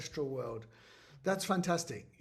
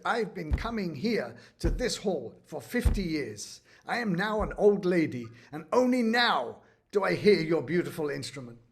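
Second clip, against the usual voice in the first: imitated old lady's indignation, growing louder; retold angry protest, swelling in volume; really angry; 2 semitones higher, 5 dB louder than usual. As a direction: build to a loud, aggrieved complaint. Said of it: "she was really angry that she'd never heard".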